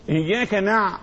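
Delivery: "نع" stopped on a held, voiced pharyngeal ع; ayn resonance. Shown as a demonstration. Teacher naming the sound for students, held ayn. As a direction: sustain the throaty ع closing "نع". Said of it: "الصوت ده اسمه بعبعة".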